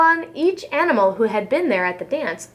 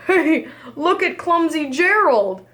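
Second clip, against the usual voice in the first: laughing sneer; 5 semitones higher than usual. Acted. Animals mocking Gerald.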